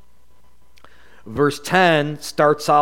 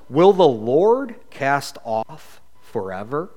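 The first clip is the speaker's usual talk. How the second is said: slow pleading question. Acted. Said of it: "David cries out. He says".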